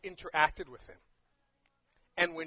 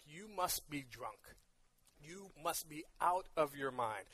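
quietly acted onlooker passing judgment; disbelieving judgment; 7 dB quieter than usual. People judging your crazy act, acted quiet disbelief.

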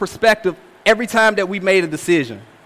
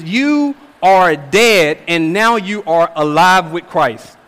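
slow weight on "dead" and "alive"; emphatic; slower than usual. Acted. Preacher repeating Paul's contrast of death and life, emphatic. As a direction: stretch out "You", then set "dead" against "alive". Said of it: "Paul is making this emphasis".

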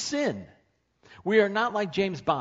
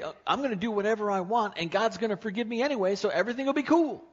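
fast, higher, carefree mockery; mock a careless sinner, breezy; 6 semitones higher, faster than usual. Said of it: "we can just say".

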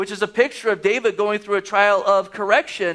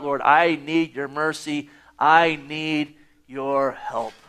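humble prayer; 4 semitones lower, slower than usual. Shown as a demonstration. Models a simple heartfelt prayer.

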